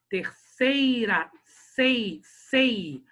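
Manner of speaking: "terceira" with SEI stretched long; slow, drawn-out stressed syllable "sei". Shown as a demonstration. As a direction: lean on "sei" in "terceira", then repeat it alone. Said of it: "Sei é paroxítona".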